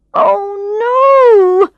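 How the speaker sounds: high, loud cry of dismay. Acted. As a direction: blurt it out in sudden panic. Realizes wrong restaurant.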